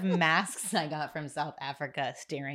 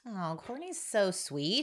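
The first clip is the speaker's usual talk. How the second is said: touched; 6 semitones higher, slower than usual. Real, not acted. Touched after friend's message.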